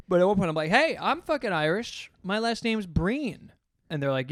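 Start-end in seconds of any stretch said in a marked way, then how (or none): 0.7-3.5 high, drawn-out mock boast; proud announcement. Comic on stage claiming kinship with Irish teens, proudly.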